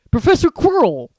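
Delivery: loud, hearty greeting; hearty giant voice. Acted. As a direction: call out warmly. Narrator voices Hagrid.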